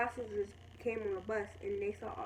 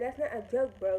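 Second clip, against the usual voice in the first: mildly angry retold objection, louder; cussing mad; 5 dB louder than usual. Telling a girl off over her grandma joke, mad. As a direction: push back hard on the joke excuse. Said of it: "I was cussing and everything".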